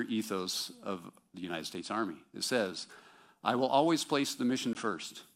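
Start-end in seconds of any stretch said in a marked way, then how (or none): 3.4-5.2 raised, ringing proclamation; proclaiming creed. Retold or imitated. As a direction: declare it like a soldier's oath. Reciting army creed, raised.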